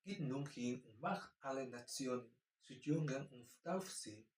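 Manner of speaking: slow, soft German verse reading; measured German recitation; scripture reading. Acted. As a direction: read it out carefully like a Bible passage. Reads Matthew 28 in German.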